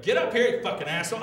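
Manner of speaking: high, fast retold outburst; hammed-up angry order; mock angry host. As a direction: imitate yourself snapping at a heckler. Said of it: "You hear in that recording".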